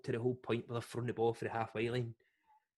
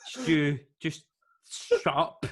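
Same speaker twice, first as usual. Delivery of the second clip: mock call-out; 4 semitones higher, 6 dB louder, much slower than usual. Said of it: "calling out heckler Stu".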